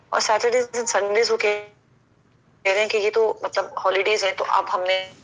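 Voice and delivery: breaking up over the call; tape dropouts. Real, not acted. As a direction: voice cutting out on a bad line. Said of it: "آپ کی آواز پھر کٹ گئی ہے".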